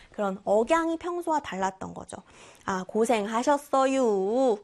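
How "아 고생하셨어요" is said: slow 고생하셨어요 with dialect melody; dialect intonation. Shown as a demonstration. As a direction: drag out 고생하셨어요 in regional tune. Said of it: "고생하셨어요가 아니라 고생하셨어요". (사투리 억양으로 천천히)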